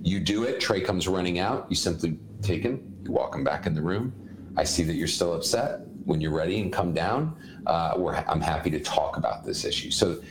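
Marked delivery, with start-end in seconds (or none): 4.6-9.9 calm parent voice, slightly lowered pitch; simple calm. Shown as a demonstration. Parent walking a child back to his room, calm. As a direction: keep it composed and emotionless, pitched down. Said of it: "and just simple calm".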